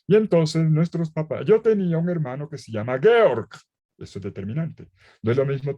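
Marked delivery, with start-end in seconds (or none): 0.1-3.5 quoting Ratzinger. Retold or imitated. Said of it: "Él dice".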